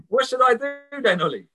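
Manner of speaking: high, helpless asking; mock helpless question. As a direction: toss the question up as if stumped. Friend asking what to do.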